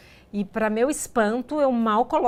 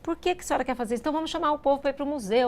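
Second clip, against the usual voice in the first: higher, fast, flustered protest; a hint of a worried old man blurting it out; rushed, baffled pleading; anxious old man; 5 semitones higher, faster than usual. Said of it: "ele ficou muito assim".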